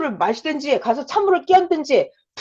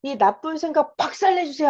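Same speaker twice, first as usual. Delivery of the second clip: brief raised call, then pleading; calling out prayer; 3 semitones higher than usual. Shown as a demonstration. Preacher demonstrating a quick prayer, mild raised call. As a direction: call on God, then ask firmly. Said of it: "하고 탁 불러버려요".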